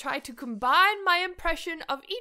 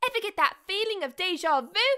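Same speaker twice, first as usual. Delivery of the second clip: Tracer voice; 6 semitones higher, faster than usual. Acted. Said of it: "mixed with Tracer".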